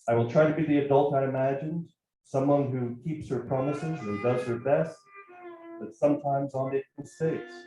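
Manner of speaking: plain reading voice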